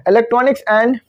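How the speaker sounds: reads the English definition very slowly, word by word; slow reading aloud. Shown as a demonstration. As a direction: dictate it slowly to the class. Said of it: "ये पढ़ देता हूँ मैं पहले क्या लिखा हुआ है".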